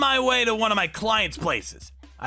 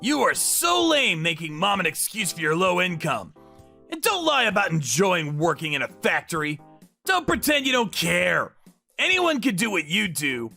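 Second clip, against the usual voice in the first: mildly scornful; 3 semitones higher than usual. Acted. Brother and sibling bicker over a factory job, mildly scornful. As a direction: argue with a touch of scorn.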